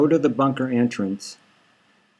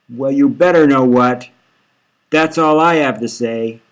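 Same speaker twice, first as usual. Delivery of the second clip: louder, strained final warning; tearful warning; 5 dB louder than usual. Acted. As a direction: end the call in tears. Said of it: "She's sniffling".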